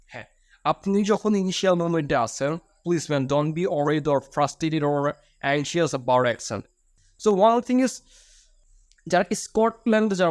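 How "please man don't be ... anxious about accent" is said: each English word drawn out very slowly; slow sincere plea. Real, not acted. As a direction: plead gently, stretching every word. Heartfelt plea to nervous learners.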